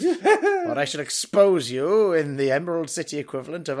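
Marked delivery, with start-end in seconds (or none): 0.0-2.1 barbarian. Pretend. Pretend barbarian demands of wizard.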